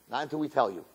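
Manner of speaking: quiet teasing friends; hushed tease. Retold or imitated. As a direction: keep it a secret, almost murmured.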